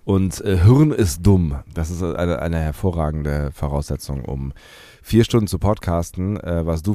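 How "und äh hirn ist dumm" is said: stuffy nose, sore throat; talking through a bad cold; blocked nose. Real, not acted. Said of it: "Nase ist zu, Hals schmerzt ein wenig".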